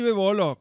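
Bébolo mimicked with the accent off the first E; misplaced stress. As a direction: say Bébolo wrongly, stress moved away from BÉ. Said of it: "no está el acento".

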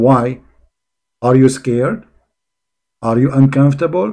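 loud, mocking questions; hammed-up husband dodging with questions; mock husband's reply. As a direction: throw the questions at the wife, mimicking him. Mimics the clip as husband's reply.

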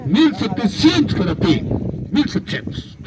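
rhythmic auction chant calling bids; spanish auctioneer. Acted. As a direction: call out each rising bid in turn.

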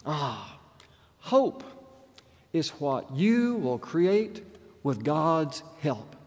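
preacher-like quote. Retold or imitated. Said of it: "She sounded like the emotions of a preacher".

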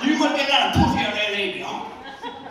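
garbled redneck chatter, pitched high; mock drunk hick, words smeared together. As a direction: badger a friend in a comic redneck voice. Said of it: "drunk redneck midgets".

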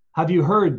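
loud, happy animal cry; joyful shout. Acted. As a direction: shout the news with joy. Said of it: "the beasts shouted with joy".

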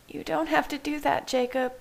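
high, gentle character voice; said softly. A narrator's reading. Bella releases Jacob from pretending, gently and high. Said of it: "Bella said softly".

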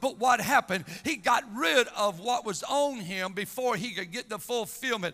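energetic, emphatic sermon cadence; impassioned preaching. Real, not acted. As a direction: drive the Bible story home from the pulpit. Preaches with force.

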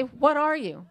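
high, loud startled what are you; amazed bystander asking what are you; shocked question. Retold or imitated. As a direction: blurt it out in disbelief with a laugh.

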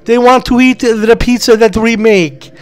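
high, eager Italian waiter. Acted. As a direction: play a jolly pizza waiter. S0 plays the waiter Salvadori.

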